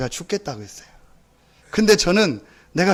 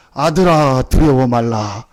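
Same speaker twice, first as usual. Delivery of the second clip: God's voice; 5 semitones lower, 5 dB louder, slower than usual. Acted. God voiced in story.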